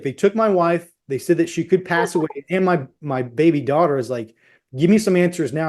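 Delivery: retold urgent demand for answers; intense demand. Husband confronts a nurse about his missing wife, intensely. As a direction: press the point insistently. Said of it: "I'm very intense with".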